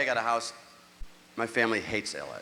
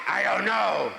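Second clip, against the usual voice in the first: sheepish mumble; 8 semitones higher, 4 dB louder, slower than usual. Retold or imitated. Sheepish reply.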